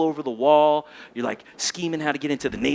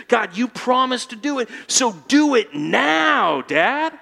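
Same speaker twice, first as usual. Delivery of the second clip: bold prayer; 2 semitones higher than usual. Shown as a demonstration. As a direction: push the prayer up into a demand.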